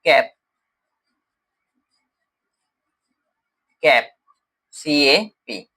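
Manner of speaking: कैप said twice, then spelled out as सीएपी letter by letter; teacher says कैप, then spells सीएपी; word then spelled. Shown as a demonstration. Teacher showing word family to class, spells word aloud. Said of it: "word families की बात करता हूँ".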